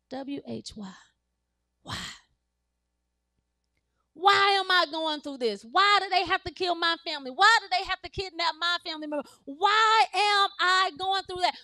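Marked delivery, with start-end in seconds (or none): 4.1-11.5 impassioned, frustrated plea; anguished crying out. Acted. Believers crying out to God in anguish and frustration. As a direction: demand an answer in angry distress. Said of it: "we're crying out and we're angry".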